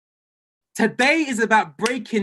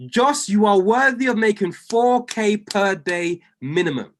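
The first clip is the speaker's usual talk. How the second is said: prophetic declaration; 2 semitones higher than usual. Real, not acted. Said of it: "I'm now going to speak over your life".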